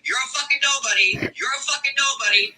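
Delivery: lightly mimicked, rising taunt. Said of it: "let me say it like a fucking singer".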